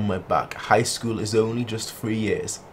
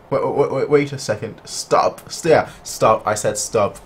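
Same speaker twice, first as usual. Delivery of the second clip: commanding stop; 4 dB louder than usual. Real, not acted. Commanding the characters.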